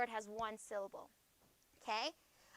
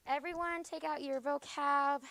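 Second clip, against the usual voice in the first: raised, higher voice to get the room's attention; calling out to class; 3 semitones higher, 4 dB louder than usual. Real, not acted. Teacher calling the whole class to get out vocab, raised voice. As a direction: call the class to order over the noise.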